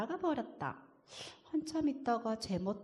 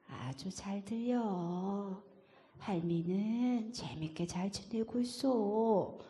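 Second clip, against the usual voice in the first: gentle grandma; 3 semitones lower than usual. Acted. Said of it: "할머니 목소리다".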